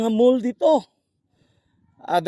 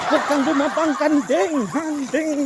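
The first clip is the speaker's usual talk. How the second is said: laughing call; 4 semitones higher than usual. Real, not acted. Calling to a goat, laughing.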